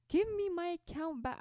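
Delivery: high mock demand; mock angry demand. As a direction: pretend to bark at the hacker. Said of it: "but I was so mad".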